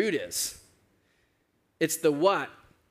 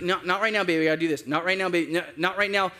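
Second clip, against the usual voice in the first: mildly harried parent, pitch a little raised; brushing someone off; 3 semitones higher, 3 dB louder, faster than usual. Retold or imitated. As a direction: fend off a nagging child while busy. Busy dad brushing off pestering daughter.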